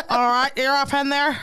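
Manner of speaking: hammed-up Aussie accent; amused put-on Australian voice; mock Australian accent. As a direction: play a jokey Australian lover. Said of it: "Could you imagine me with Australian nigga?".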